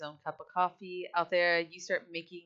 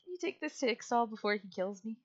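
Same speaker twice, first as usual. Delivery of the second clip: higher-pitched, mildly anxious plea; nervous; 5 semitones higher than usual. Acted. Handing over coffee for Ixtal, mildly nervous. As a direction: ask it like you're sweating a little. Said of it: "almost nervously sweating as he says".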